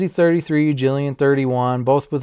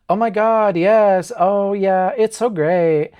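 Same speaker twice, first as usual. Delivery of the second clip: mock Valley girl, pitched up a little; California Valley girl accent; 4 semitones higher, slower than usual. Host mimics how Mackenzie first talked, Valley girl accent. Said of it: "California Valley girl accent".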